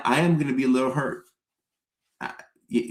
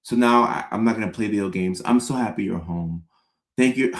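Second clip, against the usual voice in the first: fake sentimental; 3 semitones lower than usual. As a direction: overplay missing her with sighs. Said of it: "we have to be like".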